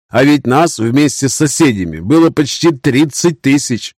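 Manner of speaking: high, earnest knight voice; a young knight mourning defeat; grieving young knight. Acted.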